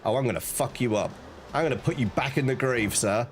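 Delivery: menacing villain. Acted. Voicing villain challenge.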